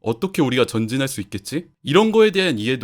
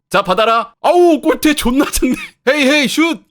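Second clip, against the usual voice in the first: loud, high laughing yells; excited shouting; 13 semitones higher, 8 dB louder than usual. Acted. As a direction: shout through the laughter at the miss. Acted pass and shot gone wrong. (웃음 섞인 높고 큰 외침)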